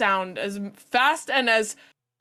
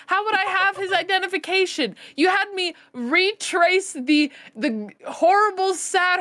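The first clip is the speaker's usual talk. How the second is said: indignant rant; 3 semitones higher than usual. Acted. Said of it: "continue my establishment rant".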